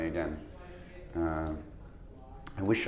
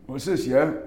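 Matt Dillon impression; 4 semitones higher than usual. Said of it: "And he's like".

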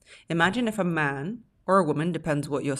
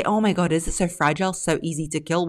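louder indignant protest; exaggerated incredulous objection; mock outrage; 4 dB louder than usual. A woman protesting to the speaker, mock outraged. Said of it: "you're gonna say".

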